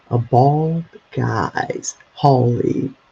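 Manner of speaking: slow, deliberate business name read. Real, not acted. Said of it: "I'm gonna read it to you".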